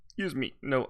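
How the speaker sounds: hiccups breaking the words; hiccuping. Real, not acted. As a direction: talk through a hiccup. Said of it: "I'm hiccuping".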